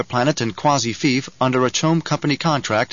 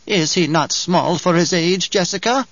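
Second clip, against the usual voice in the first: put-on wheezing old crone; 5 semitones higher than usual. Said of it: "Her voice wheezed and twanged like an untuned baliset".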